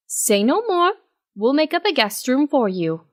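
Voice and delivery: a hint of Octavia insisting; Octavia interjecting.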